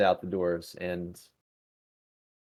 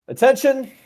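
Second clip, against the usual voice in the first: sharp military shout, much higher; commanding call; 12 dB louder than usual. Acted. Chief engineer entering engineering, commanding shout. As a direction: call the room to attention loudly. Officer calls crew to attention.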